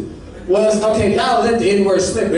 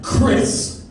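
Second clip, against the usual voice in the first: offended friend; much slower than usual. Acted. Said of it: "He's like".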